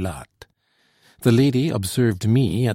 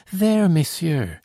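higher, slow, anxious cry; anxious exclamation; 8 semitones higher, 3 dB louder, slower than usual. A narrator's reading. Girl anxiously appealing to the patrol, higher and urgent. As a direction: press the soldiers with worry. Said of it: "she exclaimed in tones of deep anxiety".

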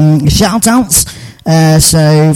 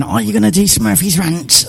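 mock pirate voice; 3 semitones higher, 4 dB quieter than usual. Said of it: "I don't know why I'm talking like that".

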